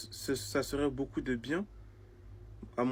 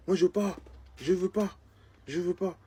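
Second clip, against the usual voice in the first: higher-pitched plaintive protest; whiny refusal; 5 semitones higher than usual. Acted. Man refusing the satanist sign-up, whining. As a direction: refuse stubbornly in a raised pitch.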